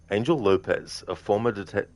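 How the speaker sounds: giggling, trying to read through laughter; can't hold back the giggles mid-line; breaking up with laughter; laughing while reading. Real, not acted.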